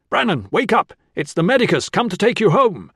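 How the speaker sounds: high, loud rousing yell; desperate shouting. A narrator's reading. Beaten medicus calling the boy to come home, shouting. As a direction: shout to wake him while being mobbed. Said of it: "he was still shouting Brannan's name".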